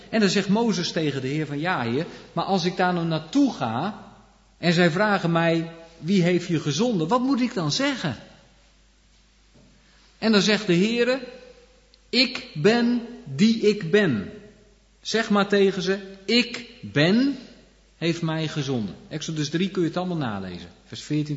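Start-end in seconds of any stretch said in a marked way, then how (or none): 1.6-8.2 rising higher and louder into the question; pleading Moses. Acted. Moses asking the Lord, worried and pleading. 12.1-19.0 slow, high and louder solemn declaration; voice of God. Acted. God answering Moses, slow majestic declaration.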